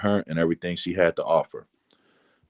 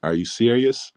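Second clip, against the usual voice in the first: higher-pitched imitation of a strong country accent; lightly imitated Southern country accent in surprise; mom's country accent; 5 semitones higher than usual. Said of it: "with her country accent sounding even stronger".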